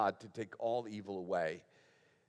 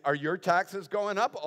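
higher, rising challenge; mock challenging question; 6 semitones higher, 6 dB louder than usual. Imagined skeptic quizzing the preacher on taxes, mock challenging question. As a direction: put it as a pointed, acted question.

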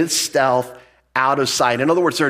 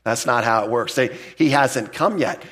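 mock dismissive laugh; 3 semitones lower than usual. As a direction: brush it off like a smug skeptic. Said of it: "they're like".

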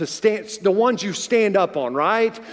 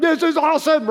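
exhilarated; 8 semitones higher than usual. Retold or imitated. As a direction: shout the joy over the wake. Riding over the wake.

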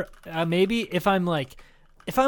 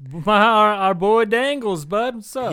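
hyped shout-out; 5 semitones higher, 6 dB louder, slower than usual. Real, not acted. Shouting out a friend.

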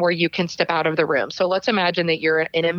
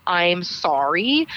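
hedging apology; much slower than usual. Shown as a demonstration. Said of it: "anything that sounds like".

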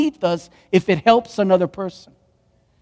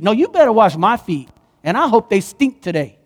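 mock attitude; 2 semitones higher than usual. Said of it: "That's an attitude".

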